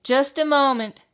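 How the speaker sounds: high, loud little mouse voice; high mouse dentist. A narrator's reading. Mouse dentist answering the fox, high voice. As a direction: call back quickly and brightly. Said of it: "said Doctor DeSoto".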